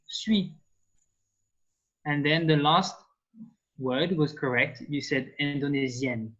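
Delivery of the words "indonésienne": "Indonesian" as French indonésienne, ending on N; sounded final N. Shown as a demonstration. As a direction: close "Indonesian" with an audible French N. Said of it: "with the N at the end".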